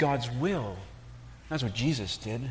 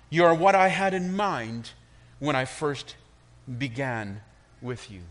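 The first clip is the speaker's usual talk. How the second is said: kind master potter; 2 semitones higher, 4 dB louder than usual. Acted. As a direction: explain lovingly why it had to hurt. Master explains lovingly.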